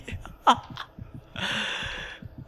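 airy breathless laugh. Real, not acted. Laughing after panic.

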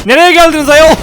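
high, loud campy exclamation; Türkçe: abartılı, naz yapan sesle; camp mock voice. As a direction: act scandalised, camp and shrill. Camp ayol put-on voice.

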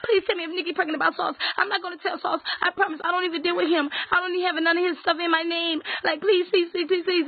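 high, whiny mock plea; mock begging. Mocking a rival's begging messages in a high whiny plea. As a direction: imitate her begging in a high pleading voice. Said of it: "screenshots how you begging".

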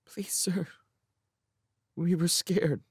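tiny, high, soft plea; timid child, barely daring to speak; scared. A narrator's reading. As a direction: plead in a small frightened voice. Small sound, frightened child pleads.

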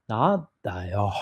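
slow, held-back mock Takaaki line; slow drawn-out Takaaki impression. Imitating Takaaki's slow held delivery for the interviewer. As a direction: drag it out like Takaaki teasing. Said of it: "あのゆっくりしたためて".

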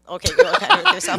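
high, laughing mock encouragement; amused sass. Host retelling her reaction to the troll's record, amused sass. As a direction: cheer him on teasingly, voice lifted.

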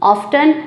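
often with a clear T, OFF-ten; American pronunciation. Shown as a demonstration. Teacher demonstrating the American often, t sounded. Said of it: "American में इसको कहा जाता है".

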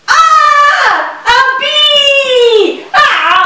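high, loud panicked shrieks; screaming in fright. Acted. Frightened child meeting the bee, shrieking.

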